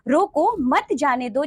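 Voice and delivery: रोको set apart, मत जाने दो as one phrase; pause after रोको. Shown as a demonstration. Teacher placing a comma for pupils, pause after रोको. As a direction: break briefly after रोको, keep मत with जाने दो. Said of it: "रोको के बाद यदि हमने अल्प विराम लगाया".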